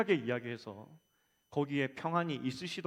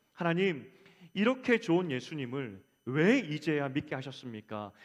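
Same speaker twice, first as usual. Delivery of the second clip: retold plea to God, louder and mildly reproachful; reproachful prayer; 5 dB louder than usual. Preacher retelling a young believer's prayer to God, reproachful. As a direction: imitate a young believer's loud, complaining prayer. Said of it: "원망하며 기도했냐면".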